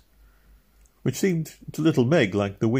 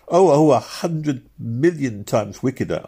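quick, keen answer; eagerly; 8 semitones higher, 5 dB louder than usual. A narrator's reading. Meg answering Robin eagerly about the devil. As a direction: jump in eagerly. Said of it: "answered Meg eagerly".

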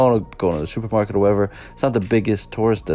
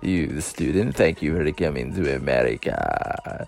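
slow, lower, over-patient mock teacher; 3 semitones lower, slower than usual. Vlogger mocks ESL teachers greeting a new immigrant student, slow and lower. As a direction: talk down slowly like a condescending ESL teacher. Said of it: "we're like".

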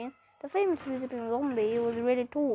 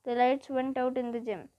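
ordinary delivery, nothing marked

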